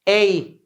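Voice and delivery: short sharp ए as in Mumbai slang. Shown as a demonstration. Teacher isolates the Mumbai ए sound for April. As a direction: say a quick ए. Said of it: "मुंबईया dialect".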